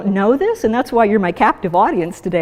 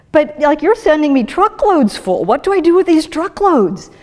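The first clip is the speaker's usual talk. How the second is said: higher, quick, exasperated complaining; a liver swamped with truckloads; overwhelmed liver; 4 semitones higher than usual. Retold or imitated. Liver complaining about incoming fructose, mock exasperated. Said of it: "your liver says".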